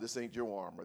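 normal talking voice

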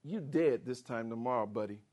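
low, soft menacing promise; low mock-menace to Elijah; low taunting threat. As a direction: sneer the death threat. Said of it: "Satan is not intimidated".

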